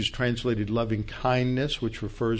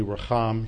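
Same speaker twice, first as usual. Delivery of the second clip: "racham" with the final syllable accented; stress on last syllable. Shown as a demonstration. Teacher settles on the likelier Hebrew, "racham" stressed on last syllable. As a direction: land the weight of "racham" on cham. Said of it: "Hebrew usually accents the last syllable".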